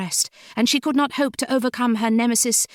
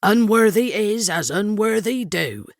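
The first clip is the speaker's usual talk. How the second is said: affirming. A narrator's reading. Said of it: "she affirmed".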